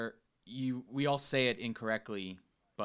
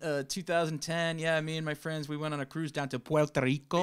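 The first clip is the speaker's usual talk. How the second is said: mock Spanish accent; 4 semitones higher than usual. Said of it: "I don't do it that bad".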